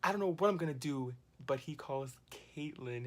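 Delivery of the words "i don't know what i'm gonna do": fast, louder, higher panicked rant; hammed-up freak-out, racing; mock fit. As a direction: blurt it out in a frantic flurry. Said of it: "So Fessy has a fit and is like".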